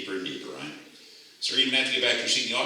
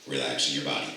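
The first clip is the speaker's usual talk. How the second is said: measured stage-hypnotist patter; hypnotic induction. Acted. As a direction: talk them down into trance.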